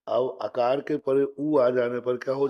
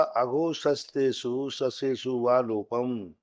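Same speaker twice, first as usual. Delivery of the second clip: slow sutra recitation; much slower than usual. Shown as a demonstration. Teacher to students, reciting the rule slowly. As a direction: chant the grammar rule slowly, word by word.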